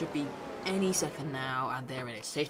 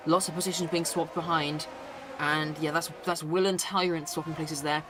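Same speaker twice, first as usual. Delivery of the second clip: excited play-by-play. Acted. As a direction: call the race start with excitement. Live race battles commentary.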